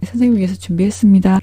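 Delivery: very quiet, hushed, tiny voice. Imitating an enneagram type-four person handing the lecturer a gift, very quiet voice. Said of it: "제가 목소리도 되게 작게 지금 얘기하잖아요".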